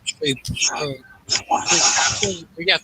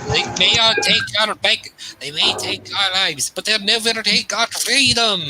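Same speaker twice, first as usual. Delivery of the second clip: higher, lightly attempted Scottish accent rebel speech; a playful Scottish rebel cry, higher; 6 semitones higher than usual. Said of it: "I can do a political Scottish accent myself".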